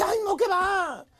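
imitated sad lament, mildly played. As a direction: act out a weary wife's sad reply. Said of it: "con voz triste".

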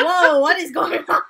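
high, loud, laughing disbelief; amused, exclaimed bewilderment; startled reaction. Retold or imitated. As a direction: act out being taken aback. Acts out startled reaction to noises.

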